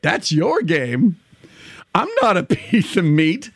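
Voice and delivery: lightly creepy clown, slow. Pretend. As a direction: recite lyrics as a creepy clown. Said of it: "in my creepy clown voice".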